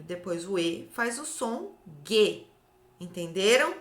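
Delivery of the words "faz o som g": slow, careful hard G in "G". Shown as a demonstration. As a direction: stretch the hard /g/ of "G". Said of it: "O G com o U no meio".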